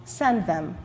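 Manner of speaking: a hint of a hushed God. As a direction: speak as God, quiet and settled. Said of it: "God replied".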